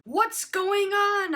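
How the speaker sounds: high, loud and slow, hammed-up disbelief; dramatic bewilderment. Confused narrator asking herself what is happening. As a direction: stretch it out like a shocked soap star.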